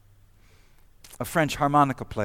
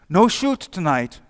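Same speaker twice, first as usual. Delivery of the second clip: higher, louder call across the lines; mock shout; 5 semitones higher, 6 dB louder than usual. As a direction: call it over the trench. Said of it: "the Germans would shout".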